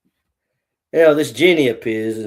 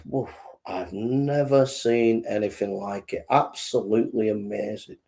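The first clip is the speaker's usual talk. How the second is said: be hugely impressed, savouring each word; awed amazement; 4 semitones lower, 5 dB quieter than usual. Acted. Manager's awed verdict in joke.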